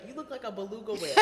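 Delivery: quick, giggly quote of a taunt; laughing through a taunt. Retold or imitated. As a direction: rattle off the insult while laughing. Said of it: "but they'll be like".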